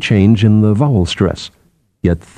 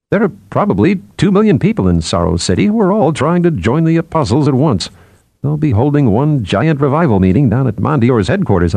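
animated, higher character voice; lightly voiced psychologist; 5 semitones higher than usual. Psychologist tells colleague about crowds joining the apostles, lightly animated. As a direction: speculate with lifted, swooping pitch.

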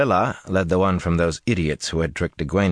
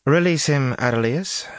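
commanding; 8 semitones higher than usual. A narrator's reading. Merlilla orders finally.

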